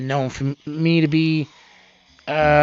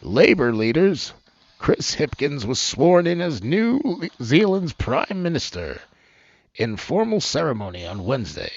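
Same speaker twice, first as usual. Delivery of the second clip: news headline read. Shown as a demonstration. Host redoing the headline for viewers, announcer style. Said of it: "Wait, I wanna do it one more time".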